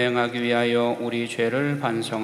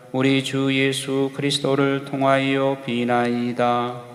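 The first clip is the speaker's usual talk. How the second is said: prayer. Acted. Priest says collect prayer.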